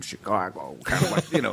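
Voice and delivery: hammed-up attempt at a Chicago accent. Shown as a demonstration. Actor recalling his botched audition, mock Chicago accent. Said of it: "trying to do a Chicago accent".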